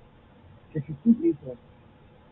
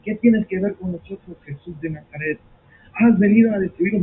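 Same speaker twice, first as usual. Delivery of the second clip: retold demon scream; 6 dB louder than usual. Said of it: "el cual comenzó a gritar".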